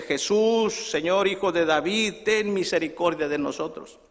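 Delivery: restrained imitation of blind men calling; first call out. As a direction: call out to Jesus for mercy, holding back. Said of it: "Y empiezan a gritarle".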